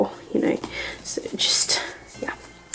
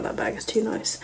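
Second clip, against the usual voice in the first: breathless whisper of delight; whispered admiration of a pretty bag; awed whisper; 10 dB quieter than usual. Real, not acted. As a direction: hush it like it's precious.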